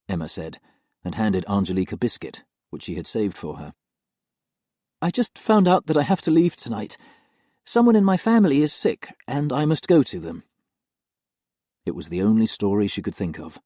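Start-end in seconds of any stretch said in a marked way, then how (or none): 5.0-10.4 hide the truth gently; gentle young nanny. Acted. Nanny tells the little girl she must leave, gently.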